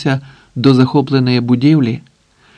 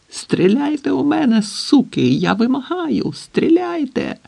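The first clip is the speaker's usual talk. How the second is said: despairing yell; 12 semitones higher than usual. A narrator's reading. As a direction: scream at them in grief and rage. Grieving man demands to be shot. (відчайдушний, надривний крик)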